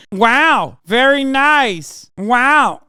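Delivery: high, loud, slow mock praise; sarcastic loud mock awe; sarcastic wow. Real, not acted. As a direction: overdo the fake admiration. Sarcastic reaction to clip.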